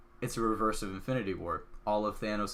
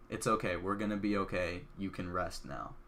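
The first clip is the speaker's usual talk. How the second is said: tender soft reassurance; 3 semitones lower, 4 dB quieter than usual. Retold or imitated. Pepper comforting dying Tony.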